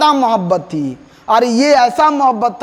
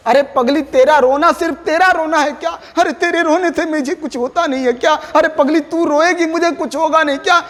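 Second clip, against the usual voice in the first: higher, tender-teasing plea to a crying beloved; poet pleading with beloved; 5 semitones higher than usual. Acted. Poet to his weeping beloved, higher teasing plea. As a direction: coax her like a lover who can't bear her tears. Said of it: "कवि कह रहे हैं अपनी प्रेमिका पत्नी".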